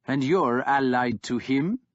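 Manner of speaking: rising, disbelieving; scornful warlord asking Ivar; incredulous question. Acted. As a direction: ask it as if it can't be true.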